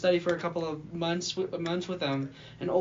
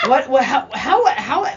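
laughing; 5 semitones higher, 8 dB louder than usual. Real, not acted. Flustered laugh about toddler.

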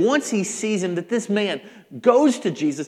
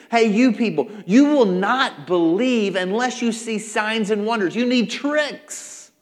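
loud, higher-pitched challenge; raised-voice scolding of a crowd; rebuking a crowd; 5 semitones higher, 6 dB louder than usual. Acted. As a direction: call them out, stretching the last words.

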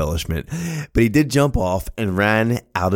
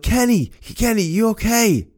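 high calling out; yelled; 13 semitones higher than usual. Retold or imitated. Father calling up the steps to his son, yelling. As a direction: call up the stairs to him.

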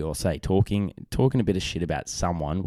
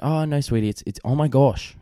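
higher-pitched coaxing parent voice; gently steer a toddler to the right words; parental correcting; 5 semitones higher, 4 dB louder than usual. Retold or imitated. Dad correcting his little daughter's swearing, coaxing voice.

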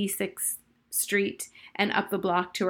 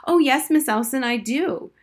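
piping up; 5 semitones higher, 5 dB louder than usual. A narrator's reading. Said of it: "Rachel piped up hurriedly".

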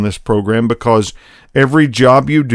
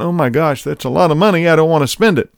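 higher, strained worry about spending money; tense voice; 4 semitones higher, faster than usual. Retold or imitated. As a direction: let the anxiety tighten the voice on "Oh my gosh". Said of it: "you can feel the tension in my voice even today".

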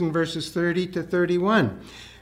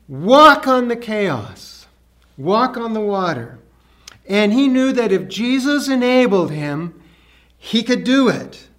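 rising fervour; 4 semitones higher, 6 dB louder than usual. Real, not acted. Preacher builds to climax.

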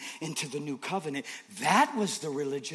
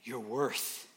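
whisper; 5 semitones lower, 9 dB quieter, slower than usual. Acted. Intimate climax.

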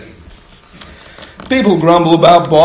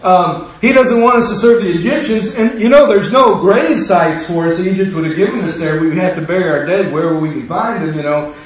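eager accuser; 2 semitones higher than usual. Retold or imitated. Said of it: "Next guy here is".

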